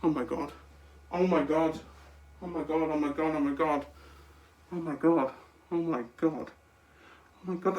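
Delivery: soft, breathless repeated disbelief; overwhelmed murmuring. Real, not acted. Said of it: "I'm kind of overreacting now".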